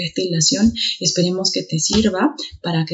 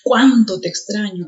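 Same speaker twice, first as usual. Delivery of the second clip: "cuánto" hit hard at the start; teacher stressing "cuánto"; emphatic CUÁNTO. Shown as a demonstration. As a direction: punch the first word, "cuánto". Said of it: "De igual forma".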